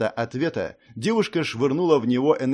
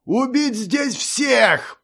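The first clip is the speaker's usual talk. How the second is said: a high, slow, loud battle cry; shouted order; 11 semitones higher, 4 dB louder, much slower than usual. A narrator's reading. Hunter shouting orders to his creatures. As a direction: roar the command to kill. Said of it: "прокричал охотник".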